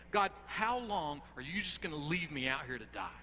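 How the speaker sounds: loud, desperate pleading, each how long pushed hard; breakdown of despair. Acted. Preacher voicing David's despairing plea to God, loud and desperate. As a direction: beg God like a man at the end of his rope. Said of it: "you can hear it in his words".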